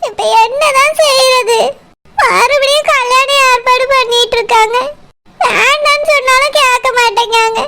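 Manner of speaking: slow, near-crying monologue; tearful lament. Acted. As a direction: hold back tears while talking to yourself. Alone, dreading the arranged marriage. (மெதுவாக அழுகையுடன் புலம்புதல்)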